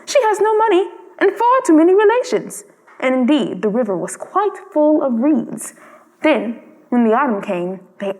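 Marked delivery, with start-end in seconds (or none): 0.0-2.6 high, chattering swallow gossip; twittering gossip. Acted. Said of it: "twittered the other swallows".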